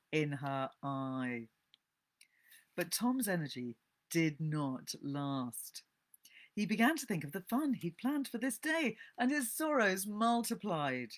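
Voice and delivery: measured, expressive storybook reading; story narration. A narrator's reading. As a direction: read the classic novel aloud to listeners.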